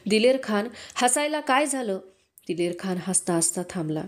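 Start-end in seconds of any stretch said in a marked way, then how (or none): 0.1-2.0 a mild narrated shout, pitch climbing higher. A narrator's reading. General shouts at his laughing commander, mild shout. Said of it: "ओरडले".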